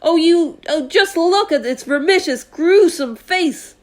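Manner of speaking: high, slow, loud dread; horrified police chief. Acted. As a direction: draw out the horror.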